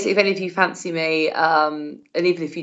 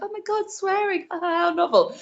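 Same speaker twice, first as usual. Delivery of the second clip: mock shock; 10 semitones higher than usual. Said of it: "everyone to be like".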